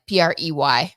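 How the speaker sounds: spelling it letter by letter, P R E Y; spelled out. Shown as a demonstration. Spelling preyed for the chat, letter by letter. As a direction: spell out P R E Y to make the word clear. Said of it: "preyed, not like prayed".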